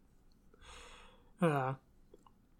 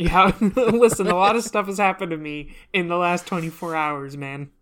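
weary mermaid; 6 dB louder than usual. Acted.

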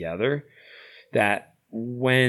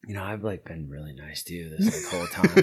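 laughing complaint. Retold or imitated.

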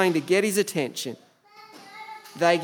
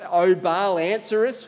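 mild mock shout; 2 semitones higher, 4 dB louder than usual. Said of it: "they shout".

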